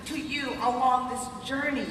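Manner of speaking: high, loud rally-the-crowd excitement; excited. Real, not acted. Speaker asks the crowd are you guys excited, high and thrilled.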